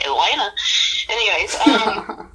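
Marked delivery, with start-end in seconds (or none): 0.1-0.5 southern accent. Shown as a demonstration. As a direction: say Atlanta the Southern way. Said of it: "You can hear my southern accent".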